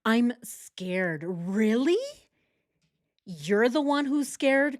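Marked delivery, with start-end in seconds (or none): 1.2-2.0 unvoiced incredulous whisper; whispered rising really. Real, not acted. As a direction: breathe it in disbelief. Incredulous aside after quote.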